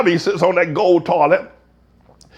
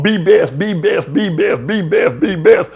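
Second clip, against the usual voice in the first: mock Slovenian accent; 2 semitones lower, slower than usual. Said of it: "broken language talk".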